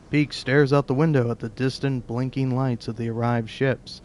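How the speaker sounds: narration with a little twist; narrator's slight spin. Shown as a demonstration. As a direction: read it with ever so slight a spin. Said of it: "I'm doing".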